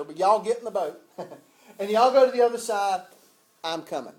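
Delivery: chuckling folksy retelling of Jesus's words; laughing Southern y'all. Pretend. Preacher playfully voices Jesus sending disciples off, laughing. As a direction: laugh through it, playing up the y'all. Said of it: "I don't know if you use y'all".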